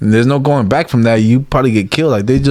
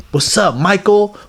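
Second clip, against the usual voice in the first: friendly greeting; 8 semitones higher than usual. Retold or imitated. Greeting someone he met once by name, high and friendly.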